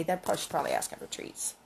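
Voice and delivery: ordinary delivery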